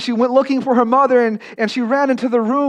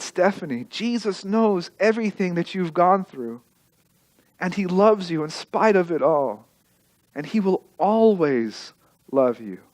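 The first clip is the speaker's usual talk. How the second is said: tender father; 4 dB quieter than usual. Retold or imitated. Father comforting daughter.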